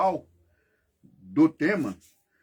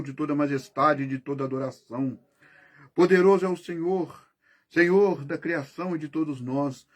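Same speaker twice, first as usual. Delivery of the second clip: spoken prayer; 2 semitones lower, faster than usual. Real, not acted. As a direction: pray quickly and earnestly. Leads a rapid spoken prayer.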